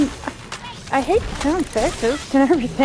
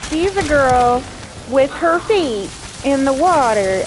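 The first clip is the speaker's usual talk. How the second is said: high, slow, drawn-out disbelief; incredulous; 4 semitones higher, slower than usual. Real, not acted. Streamer asking chat who would drink bathwater, slow incredulous disbelief. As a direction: stretch each word out in total disbelief.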